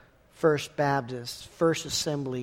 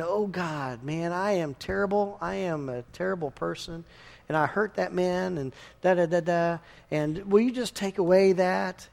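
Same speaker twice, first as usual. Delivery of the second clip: mock confession. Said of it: "you're saying".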